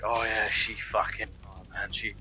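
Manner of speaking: mate-heavy Aussie bloke voice, lightly done; mock Aussie accent. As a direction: put on a lazy Australian accent. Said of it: "Would you quit with the fucking accent?".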